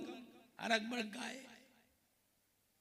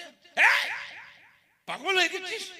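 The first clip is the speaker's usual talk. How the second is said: higher, sharp mother's rebuke; a mother scolding her grown son, voice raised; 8 semitones higher, 7 dB louder than usual. Acted. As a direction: scold him like an upset mother. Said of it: "মা তো তোর রাগ করছে".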